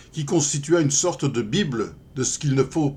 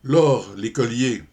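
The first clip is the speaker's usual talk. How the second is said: slow, deliberate comic verse reading; poem recitation. Acted. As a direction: spin out the verse with pauses before each reply. (récitation de poème comique, lente et ménagée)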